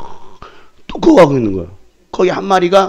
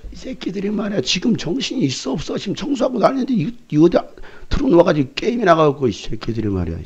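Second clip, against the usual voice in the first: high scolding rant; 5 semitones higher, 3 dB quieter than usual. Retold or imitated. Scolding the boys.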